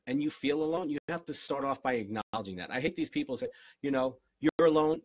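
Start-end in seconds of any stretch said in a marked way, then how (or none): 4.4-5.0 mock loud. Mock telling someone they're alone.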